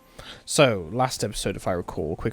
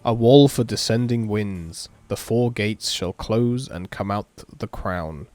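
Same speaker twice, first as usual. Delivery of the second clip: slow, measured ritual recital; incantation reading; slower than usual. Acted. Player reading the mage's summoning spell aloud, measured incantation. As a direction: recite the spell in deliberate phrases. Reads a summoning chant from the game.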